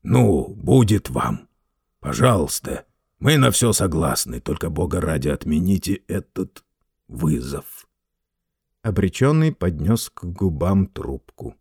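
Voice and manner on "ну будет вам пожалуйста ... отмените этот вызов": plaintive. Acted. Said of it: "он жалобно добавил".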